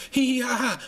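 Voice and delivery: a mocking imitation of a smug giggle. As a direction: mimic his smug little giggle. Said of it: "And he's laughing".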